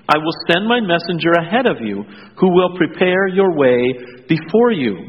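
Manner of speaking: measured, deliberate Bible reading; scripture reading. Acted. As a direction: read the Gospel aloud to the congregation, unhurried.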